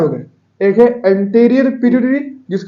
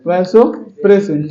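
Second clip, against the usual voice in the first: slow drawn out; 2 semitones lower, 4 dB louder, much slower than usual. Shown as a demonstration. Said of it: "इसका दूसरा नाम ADH का नाम".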